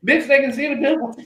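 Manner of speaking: high-pitched teenage protest, retold; mock indignant retort. Thirteen-year-old back-talking his sister, high indignant voice.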